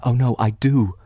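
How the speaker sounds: calm her like a sister would; gentle comfort. Acted. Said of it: "pressing her hand".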